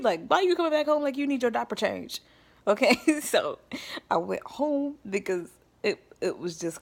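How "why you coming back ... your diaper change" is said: higher, louder sneering mother; mocking mom. Mom sneering at her daughter coming home, higher and louder. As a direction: tease her like a scornful mom.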